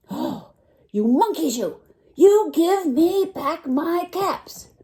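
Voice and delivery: high, loud, very slow furious yell; really very angry. Acted. Peddler stomping both feet at the monkeys, slow furious yell. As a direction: drag out every word in a rage. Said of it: "the peddler was really very, very angry".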